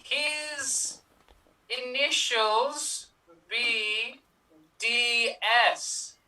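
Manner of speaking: put-on Russian accent. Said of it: "you sound strangely European".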